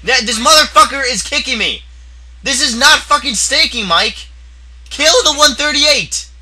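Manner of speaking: high loud frantic yell. Real, not acted. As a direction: yell in panic. Being killed, yelling to Mike.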